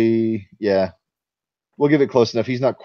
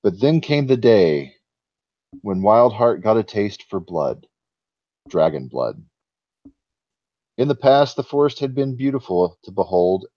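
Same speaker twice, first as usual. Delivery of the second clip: story narration. A narrator's reading. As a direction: read it like an old tale. GM reads the forest legend.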